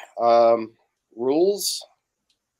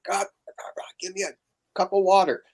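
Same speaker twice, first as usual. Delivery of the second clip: hammed-up demand for water, high and hurried; mock yelling; 8 semitones higher than usual. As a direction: play a pushy boss calling for water. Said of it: "a guy on set screaming and yelling".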